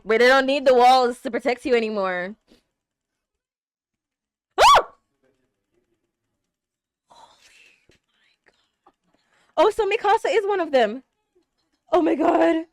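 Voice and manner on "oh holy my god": slow, breathless whisper; awed whisper. Real, not acted. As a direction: breathe it out in awe. Awed at the reveal.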